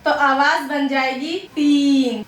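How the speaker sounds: तीन said softly, with no whistle; teacher demonstrating a mistake; soft wrong version. Shown as a demonstration. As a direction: show how a soft सीन turns into तीन. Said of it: "नरमी के साथ पढ़ेंगे".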